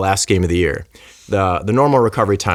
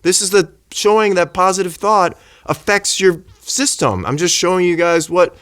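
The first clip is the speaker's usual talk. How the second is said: much higher, insistent explaining; imitating her own fired-up reply; retold heated defence; 9 semitones higher than usual. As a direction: push back on a heckler, pitch way up. Retelling her defence against the doctor.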